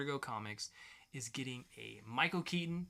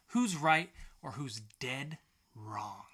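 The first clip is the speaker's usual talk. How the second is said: hushed, breathy stage whisper; teasing show-host whisper; spooky whisper; 2 semitones lower, slower than usual. Acted. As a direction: whisper it like a secret. Dramatic aside in show intro.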